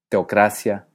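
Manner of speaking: TEOCRACIA with E and O in one syllable; diphthong. Shown as a demonstration. Teacher offers the second option, teocracia as diphthong. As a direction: glide teo quickly together in teocracia. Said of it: "hacer diptongos manteniendo la calidad".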